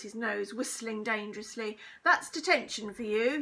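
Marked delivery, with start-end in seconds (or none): 2.0-3.4 loud stern pronouncement; crying out. A narrator's reading. Teacher gives pupil detention, crying out. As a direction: hand down punishment at full voice. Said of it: "he cried out".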